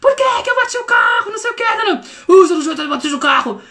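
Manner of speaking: silly self-scolding voices after scraping the car; funny voices. Retold or imitated. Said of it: "vou fazer umas vozes diferentes".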